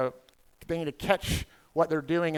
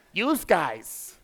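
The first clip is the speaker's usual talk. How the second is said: Northern dialect; 3 semitones higher than usual. Retold or imitated. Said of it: "What do y'all say if you were referring".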